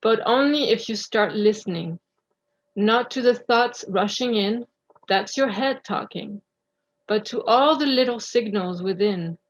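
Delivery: measured recitation with clear pauses between phrases; deliberate spoken-word delivery, line by line; articulate poem reading. Real, not acted. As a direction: read your own poem aloud, carefully articulated. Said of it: "articulate well and speak loud".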